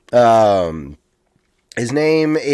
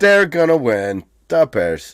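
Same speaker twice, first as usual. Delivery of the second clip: slow, drawn-out Chicago fan; mock Chicago sports-fan accent; 3 semitones higher, slower than usual. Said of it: "Chicago has this accent".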